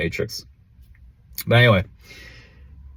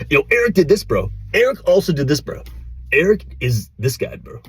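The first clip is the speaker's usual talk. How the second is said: high-pitched heckler imitation; mock complaining viewers; 7 semitones higher than usual. Imitating commenters saying Eric already did this, high mock voice. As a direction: push it up high, needling "bro" at the ends.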